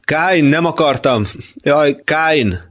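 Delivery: high, anguished calling; pleading cry. Acted. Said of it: "most még kérlelőbben". (kérlelő, magas hangú kiáltás)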